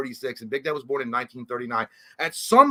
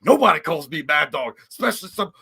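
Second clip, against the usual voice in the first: high, hammed-up outlaw boast; movie villain impression, insult stretched out; Mad Dog; 5 semitones higher, 4 dB louder than usual. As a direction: play an affronted film outlaw, pitched up. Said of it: "He was like".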